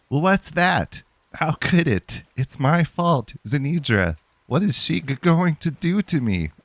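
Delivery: a panicked, guilt-ridden acolyte squeaking out his fear; high distraught priest. Acted. Player voicing Kiado the priest, high and distraught. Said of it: "I don't know why that's his voice".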